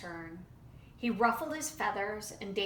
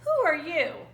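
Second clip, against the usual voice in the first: hostile challenge; 6 semitones higher, 8 dB louder than usual. A narrator's reading. Rattlesnake challenging.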